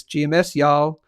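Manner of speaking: lightly put-on Texan accent; bad Texan accent. Greeting a Texan viewer in their style, bad Texan accent. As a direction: have a poor go at a Texan drawl. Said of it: "that's a terrible accent".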